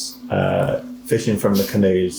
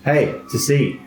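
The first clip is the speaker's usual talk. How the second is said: kenku mimic; 6 semitones higher than usual. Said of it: "and goes".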